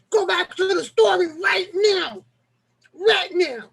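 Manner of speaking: mock yelling. Imitating Alita ordering him back to the story. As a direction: bark the order the way she would. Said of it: "Alita yelling at me".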